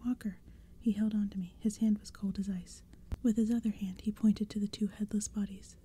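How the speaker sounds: hushed spooky whisper throughout; whispered storytelling. A narrator's reading. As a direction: breathe the story like a secret.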